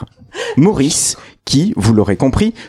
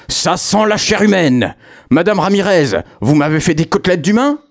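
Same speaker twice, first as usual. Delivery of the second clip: devil's voice; 6 semitones higher than usual. Acted. Devil sniffs human flesh.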